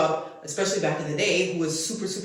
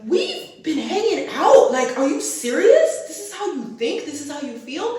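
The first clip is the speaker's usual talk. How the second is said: retold disbelief; 9 semitones higher, 6 dB louder than usual. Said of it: "and I was like".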